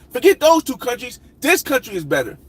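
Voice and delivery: mock hype-vlogger voice; mocking YouTuber. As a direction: lampoon the fickle travel vlogger. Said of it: "And they say".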